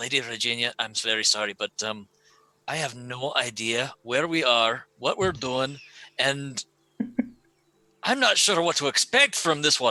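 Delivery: hushed, private half-whisper. Voicing a character who speaks to another, out of others' earshot: half-whispering. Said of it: "he whispers this to Regina".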